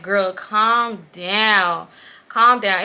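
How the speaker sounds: drawn-out, loud exasperated plea; annoyed pleading. Retold or imitated. Telling the clingy friend to back off, exasperated. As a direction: stretch it out, fed up with her. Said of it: "It was just so annoying".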